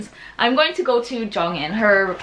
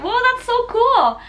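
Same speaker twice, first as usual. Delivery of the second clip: excited fangirl; 4 dB louder, slower than usual. Retold or imitated. Reacting to a band's answer.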